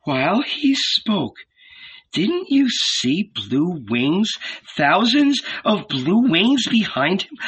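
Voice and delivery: high, swooping, marvelling voice; awestruck wonder. A narrator's reading. Salome tells Mary of the angels, awestruck.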